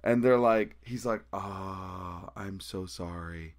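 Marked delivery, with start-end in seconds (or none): 1.3-3.5 much softer, slow sheepish sorry; meek apology. Retold or imitated. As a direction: shrink and mumble an apology. Band member apologizing meekly.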